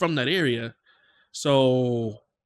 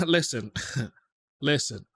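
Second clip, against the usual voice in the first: laughing; 2 semitones lower than usual. Real, not acted. Laughing at the AI-sounding voice.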